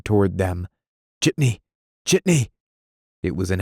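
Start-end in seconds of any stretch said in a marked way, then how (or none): 1.2-1.6 calling out. Acted. Hailing a cab in a panic. 2.0-2.5 higher, louder second call; frantic shout. Acted. Desperate man hailing the Ford again, higher frantic yell.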